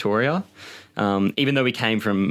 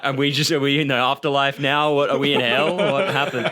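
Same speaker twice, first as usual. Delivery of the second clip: mock panic; 5 semitones higher than usual. Family on the balcony seeing smoke, mock alarmed bewilderment. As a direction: blurt it out, alarmed. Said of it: "we were like".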